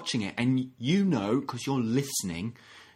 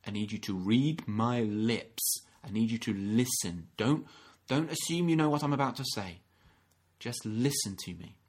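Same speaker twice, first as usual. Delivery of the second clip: calming parent. Retold or imitated. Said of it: "held by our parents to say".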